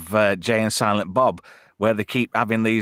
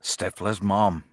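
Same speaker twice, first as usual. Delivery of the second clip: slow, lower American-style "mom" from an English speaker; attempted American "mom"; 5 semitones lower, 3 dB quieter, slower than usual. Shown as a demonstration. English host naming Stifler's mom, attempted American accent. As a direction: try "mom" the American way, slowly. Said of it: "I find that very hard".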